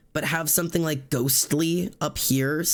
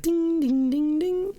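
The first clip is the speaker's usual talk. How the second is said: much higher sing-song dings; sparkle sound. Shown as a demonstration. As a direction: chime like twinkling stars. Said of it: "this could be".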